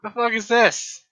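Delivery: high, slow indignant demand; indignant disbelief. Real, not acted. Reacts to thing that hit them.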